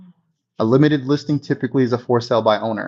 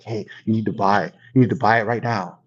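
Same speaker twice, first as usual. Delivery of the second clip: insider tip; 5 semitones lower than usual. Retold or imitated. Stock broker tipping a friend, low urgent. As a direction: lean in and push the buy. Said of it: "be like".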